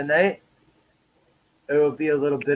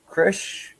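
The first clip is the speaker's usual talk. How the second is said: whisper; 6 semitones higher than usual. Real, not acted. Whispered name call.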